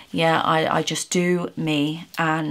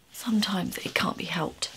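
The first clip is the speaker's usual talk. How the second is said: emotional whisper; 6 dB quieter than usual. Real, not acted. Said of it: "Sorry for getting emotional".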